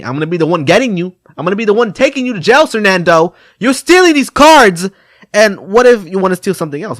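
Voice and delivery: loud, high, fast lecturing shout; hammed-up cop yelling a warning; mock scolding. Officer scolding young thief Fernando, mock yelling.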